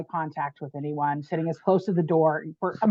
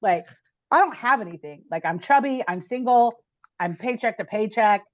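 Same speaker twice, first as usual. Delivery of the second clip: retold rant, building to a sharp screw you; half-acted outburst, hottest at the end; mad at God; 2 semitones higher than usual. Woman venting at God while driving, mock angry rant. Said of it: "but I was mad at God".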